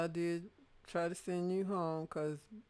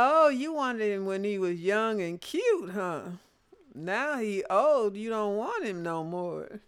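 mock accusing; 3 semitones higher, 5 dB louder than usual. Mother scolding other parents.

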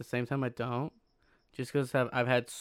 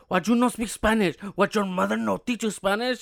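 high, louder mocking voice; mocking accusers; 7 semitones higher, 6 dB louder than usual. Retelling strangers who scold him for not speaking Spanish. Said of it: "they just go off on me".

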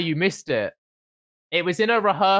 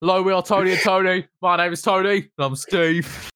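mock stage intro. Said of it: "the first one was".

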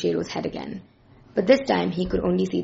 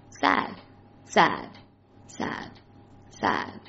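sad repeated, sinking into a whisper; fading whisper; 11 semitones lower, 4 dB quieter, much slower than usual. A narrator's reading. Dog's mind hears one word, whispered and fading. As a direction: let each sad drain away to breath. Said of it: "a name that was just one word".

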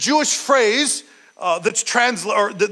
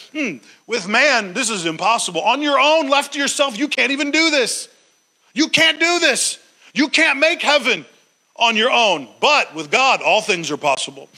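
Jesus' exhortation. Acted. Preacher voicing Jesus' exhortation.

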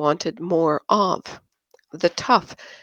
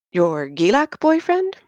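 dry; 6 semitones higher than usual. Acted. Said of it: "Erno said dryly".

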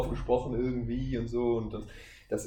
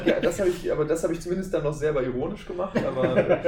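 higher and louder, through laughter; laughing; 7 semitones higher, 6 dB louder than usual. Real, not acted. Admitting his once formal speech, laughing.

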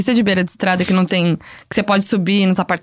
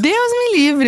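frightened cry; 11 semitones higher, slower than usual. Real, not acted. Reacting in fear to ghost story.

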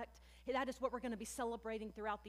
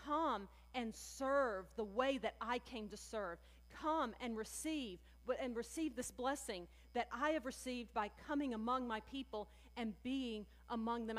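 gentle invitation. Retold or imitated. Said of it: "And Jesus is saying".

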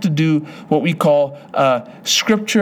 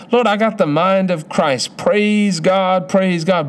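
joyful praise; 4 semitones higher, slower than usual. Shown as a demonstration. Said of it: "Begin to praise the Lord".

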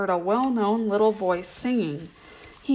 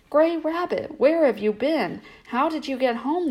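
excited; 5 semitones higher than usual. Acted. Friends greet her excitedly.

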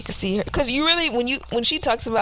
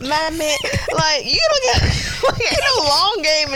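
mock voice; 7 semitones higher than usual. Continues mock voice.

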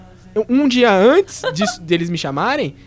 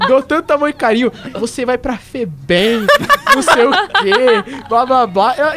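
mocking mother. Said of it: "minha mãe ficou muito triste".

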